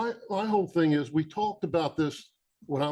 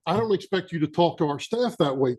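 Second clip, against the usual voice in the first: angry; 2 semitones higher, 6 dB louder than usual. Real, not acted. Mayor rebukes commissioner in meeting.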